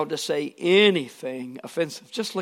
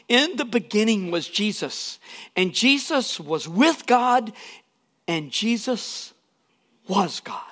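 slowing and rising, then a hushed whisper on was God; building emphasis; 4 semitones higher than usual. Shown as a demonstration. Preacher substituting Jesus into the verse, ending hushed. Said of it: "let's just substitute the word Jesus for word".

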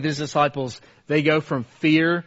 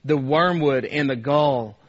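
Christian preaching to self. Acted. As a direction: read the psalm as your own prayer, slowing into hope. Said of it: "He talks like this".

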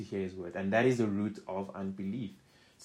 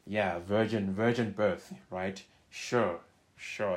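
sarcastic mocking; 3 dB louder, slower than usual. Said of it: "They are mocking Jesus and saying".

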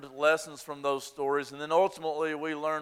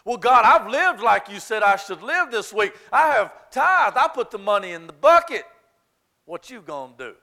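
loud, high, indignant whining at God; mock self-righteous churchgoer; entitled complaint to God; 4 semitones higher, 8 dB louder than usual. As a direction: demand your due from God, hammed up. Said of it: "we start to feel entitled".

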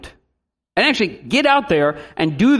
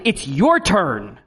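mock annoyance; 3 semitones lower, much slower than usual. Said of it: "out of annoyance".

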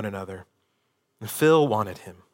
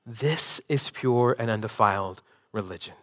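softer, lower, weighty and earnest; solemn quiet reading; 3 semitones lower, 6 dB quieter than usual. Shown as a demonstration. Pastor reading the verse to the congregation, quiet and solemn. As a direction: let the verse land with quiet gravity. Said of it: "you can't hear this verse".

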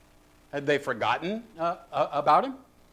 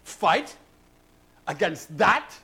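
doubting Scottish soldier, lightly voiced; veteran soldier; 3 semitones higher, slower than usual. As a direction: question the order in disbelief, with a hint of brogue. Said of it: "a veteran soldier says".

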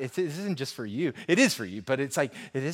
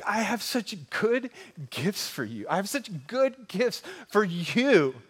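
Father's promise; 6 semitones higher, 3 dB louder, slower than usual. Retold or imitated. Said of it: "heavenly Father who has said".

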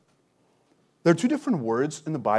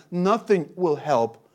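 slow emphasis; slower than usual. Acted. Preacher repeats for emphasis.

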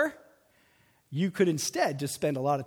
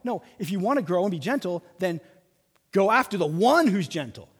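louder insistent urging; emphatic Paul; 5 dB louder than usual. Retold or imitated. Preacher voicing Paul urging the church, louder. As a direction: press it home like Paul pleading. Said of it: "He's saying".

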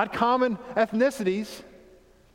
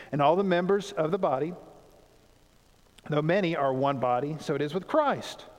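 measured, lower-pitched Bible reading; scripture reading; 5 semitones lower than usual. Acted. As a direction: read the verse aloud in an even, lowered voice. Reads the Bible passage aloud.

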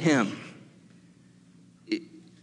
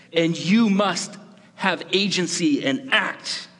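God speaking; 4 semitones higher than usual. Acted. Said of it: "to say".

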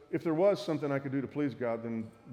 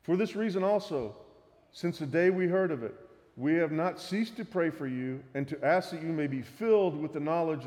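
raised, earnest reading of scripture. Acted. Pastor reading Colossians to the church, raised and earnest. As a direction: read the verse out to the congregation. Reads Colossians passage aloud.

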